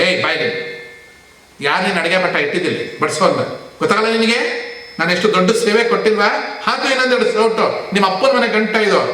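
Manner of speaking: bossy mock rebuke, rising in pitch; rude scolding. Greedy guest scolding the server, mock rude demand. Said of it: "ಅಂತ ಬೈಯೋದು".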